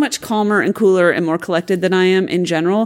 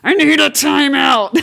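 slower, louder and a bit higher, leaning on need; mock-serious time-out call; firm time-out request; 5 semitones higher, 3 dB louder, slower than usual. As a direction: say it slowly and firmly, like you mean it. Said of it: "It's more like".

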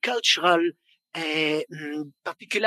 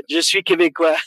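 louder, playful Québécois French declaration; proud Québécois French; 7 dB louder than usual. Real, not acted. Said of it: "You speak Quebecois".

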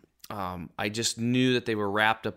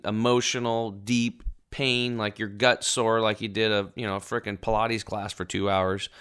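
ordinary talk

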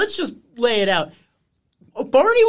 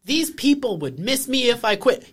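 slow, flat imitation of a sitcom tantrum; mock-sincere understated fury; deadpan mock anger; slower than usual. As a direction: recite the anger like it means nothing. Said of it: "a real thing that a normal person would say when they're pissed off".

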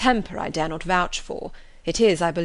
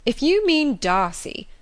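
cried out; 6 semitones higher, 4 dB louder, slower than usual. A narrator's reading. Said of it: "cried her brother".

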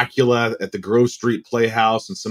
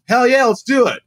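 eager yes; 10 semitones higher, 4 dB louder than usual. Retold or imitated. Eager reply to agent.

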